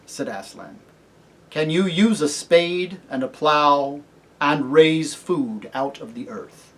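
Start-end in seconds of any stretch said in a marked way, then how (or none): 1.5-6.7 slow, measured questioning; solemn kingly lion. Acted. Aslan testing the cabbie for kingship, solemn. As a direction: ask with calm authority.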